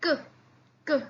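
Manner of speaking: k said alone, crisp and unvoiced; teacher drilling the k sound; isolated sound. Shown as a demonstration. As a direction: click out k on its own. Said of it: "that's why we say it".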